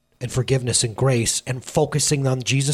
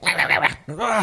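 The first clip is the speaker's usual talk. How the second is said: mock agitated gibberish, garbled and raspy; wordless angry babble; 2 semitones higher than usual. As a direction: imitate someone ranting without real words. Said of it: "don't even sure those were words".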